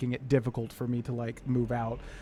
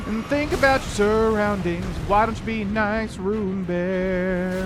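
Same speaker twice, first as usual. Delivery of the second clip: put-on much higher, slow, sing-song baby talk; scolding a boss like a pet; 7 semitones higher, 4 dB louder, slower than usual. Gamer scolding a bear boss, high baby-talk voice. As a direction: coax the angry bear like a naughty dog.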